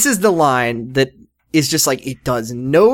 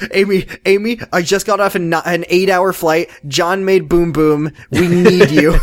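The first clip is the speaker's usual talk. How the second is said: higher, slow, pleading parody of Anne; mock frantic mother; 4 semitones higher than usual. Mocking Anne begging Amy for help with the baby, higher and whiny. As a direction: whine it like a tired new mom.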